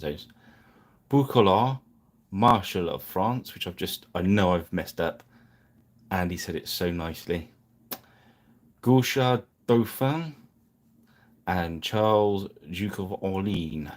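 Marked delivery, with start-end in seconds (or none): 1.1-3.5 "Boucoulard" said with a clumsy try at a French accent; a shaky French accent, slowly; attempted French. Shown as a demonstration. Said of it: "You have to really excuse me on these pronunciations". 8.8-13.9 slow, careful try at a French accent; "Gauchard Dauphin" in a hesitant French accent; attempted French. Shown as a demonstration. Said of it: "You have to really excuse me on these pronunciations".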